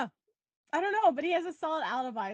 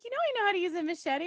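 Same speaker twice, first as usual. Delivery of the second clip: high, quick, mock-gentle voice; sweetly gentle imitation, quick and high; imitated gentle voice; 7 semitones higher, faster than usual. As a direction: lightly mimic a gentle woman, pitched up. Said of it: "like, her gentle voice".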